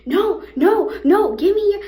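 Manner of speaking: mock yell, high and loud; retold yell. Angry man charging at them in the hotel, loud mock yell.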